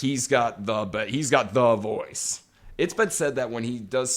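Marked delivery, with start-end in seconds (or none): 0.0-2.4 he's got the VOICE, slow and weighted; drawn-out emphatic praise; stress on voice. Real, not acted. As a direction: lean into "voice" slowly. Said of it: "emphatic correction".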